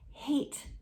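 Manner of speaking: high, stunned single word; a mild hint of terror; frightened. Terrified Jane answering Alexander, high and frightened.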